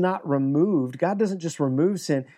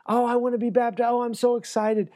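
higher, gushing "Oh, I believe"; mock enthusiasm; 5 semitones higher than usual. Pastor imitating eager new believers, mock gushing. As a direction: gush like a new convert. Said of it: "they say".

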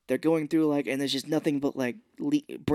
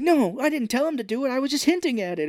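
sheepish admission; 11 semitones higher, 3 dB louder than usual. Retold or imitated. Character sheepishly admitting.

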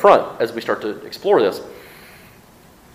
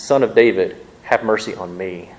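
pleading; 2 semitones lower than usual. Retold or imitated. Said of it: "but she pleads".

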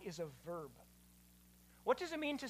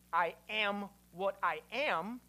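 measured declaration; slower than usual. Shown as a demonstration. Contrasts the wrong and right answer.

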